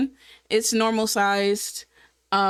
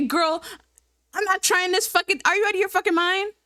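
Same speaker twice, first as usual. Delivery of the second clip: outraged yell; 8 semitones higher, faster than usual. Retold or imitated. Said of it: "And I was like".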